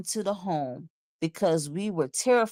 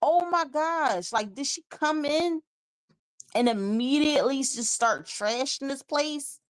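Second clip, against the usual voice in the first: amazed disbelief; 6 semitones higher than usual. Real, not acted. Disbelief at the damage.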